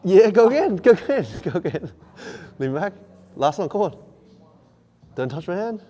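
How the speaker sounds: loud high gym hype; shouting encouragement. Real, not acted. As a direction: drive them through the final reps. Coach cheering client through set.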